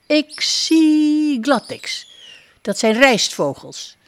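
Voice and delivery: high, slow duck voice drawing out zie; proud little duck. Acted. Duck pointing out rice birds, high and slow.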